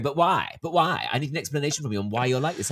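retold insistent demand; demanding questioners. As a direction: press for an answer as a nosy person. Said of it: "other people going".

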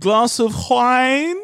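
loud laughing through words. Real, not acted. Joking about murder show.

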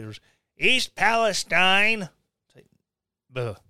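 ordinary talk, nothing marked

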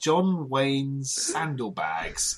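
slow, drawn-out posh English; posh accent. Acted. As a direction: read it like a plummy aristocrat. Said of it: "in a posh accent".

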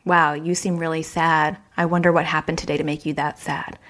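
gentle observing. Shown as a demonstration.

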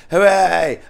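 bright high cheer, a touch of irony; excited cheer. Acted. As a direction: cheer it like a small victory. Mock celebrating her own answer.

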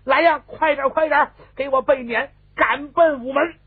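high, loud string of orders; agitated elderly matriarch giving commands; frantic urgency. A narrator's reading. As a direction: order the servants to hurry at once. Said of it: "老太太后头急了".

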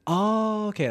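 sudden dawning surprise; imitating people who finally understand; surprised realization. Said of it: "they were like".

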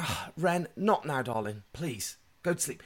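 soft pleading parent; retold bedtime pleading. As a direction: beg a child gently to settle down.

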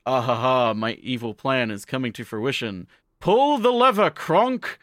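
hammed-up evil mastermind; mock villain. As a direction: cackle then bark the command like a cartoon baddie. Villain retold in story.

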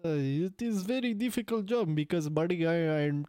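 halting mock-Russian accent; muddled Indian-Russian accent; accent swap. Shown as a demonstration. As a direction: struggle through in put-on foreign accent. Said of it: "just do an accent swap".

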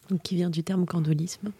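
slow soft unvoiced whisper. Real, not acted. Co-host whispering an explanation. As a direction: explain it under your breath.

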